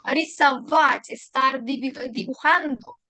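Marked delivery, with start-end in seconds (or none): 0.0-1.1 рисовать slowly, leaning on the last A; stress on the A. Shown as a demonstration. Teacher repeating for learners, slow рисовать with stressed final A. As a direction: hit the VAT in рисовать. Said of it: "tilde en la A".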